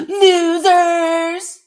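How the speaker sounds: high, loud jeering holler; mock office tantrum yell. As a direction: act out a leader yelling in his office. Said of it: "in his office like this".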